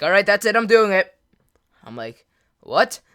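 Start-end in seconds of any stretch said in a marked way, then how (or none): 0.0-1.1 raised, higher voice as she finally snaps; louder threat. Retold or imitated. Girl fed up with no reply, loud raised threat. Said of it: "She's like". 2.6-3.0 said out loud. Retold or imitated. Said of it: "out loud".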